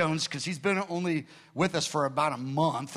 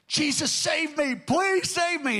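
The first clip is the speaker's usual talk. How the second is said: much higher, louder, slow crying shout; desperate wailing plea; 10 semitones higher, 3 dB louder, slower than usual. Retold or imitated. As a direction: wail for rescue, stretched and desperate. Man wailing for salvation on floor.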